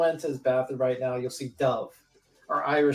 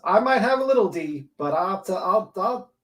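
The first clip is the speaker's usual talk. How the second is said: mock voice; 7 semitones higher than usual. Mocking the guy, high voice.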